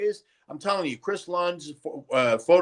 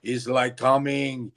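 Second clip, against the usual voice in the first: lightly imitating Arnold; 3 semitones lower than usual. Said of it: "That's when Arnold, you can come in and say".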